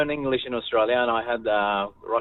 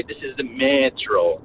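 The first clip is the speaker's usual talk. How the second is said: slow imitated Russian accent, "metro" dragged long; lightly imitated Russian drawl; drawn-out Russian accent; slower than usual. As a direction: stretch the words like a Russian speaker. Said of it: "They drag it out".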